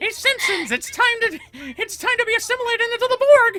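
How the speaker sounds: shrill, squeaky, very high and loud cartoon mouse voice. Asked on stream to do his best Mickey impression, Mickey voice. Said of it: "Do your best Mickey impression".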